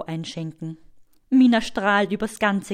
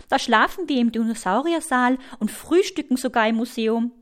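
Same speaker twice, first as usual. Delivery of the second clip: put-on chatty young girl; faster than usual. Story figure Mina.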